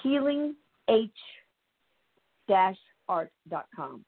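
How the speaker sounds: spelled out slowly, word by word; slow dictation. Shown as a demonstration. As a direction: dictate it slowly so people can write it down. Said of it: "please write this down".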